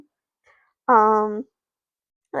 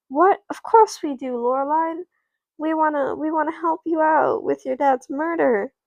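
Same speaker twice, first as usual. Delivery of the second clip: higher-pitched, insistent reassurance; earnest protest; 6 semitones higher than usual. Acted. Mackenzie to Loreline, offering help, earnest protest. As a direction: protest that of course you'll help.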